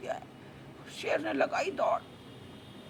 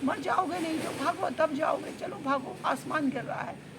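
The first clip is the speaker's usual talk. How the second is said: high, urgent cry that gradually eases down; yelling while fleeing; 6 semitones higher than usual. Acted. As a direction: shout a warning back over your shoulder. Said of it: "लोमड़ी भागते भागते चिल्लाई". (भागते हुए चिल्लाकर चेतावनी)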